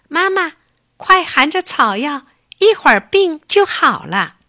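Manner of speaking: put-on a child begging mom to get well; eager little bear. Little bear urges his sick mother to take the herb, eager high cub voice.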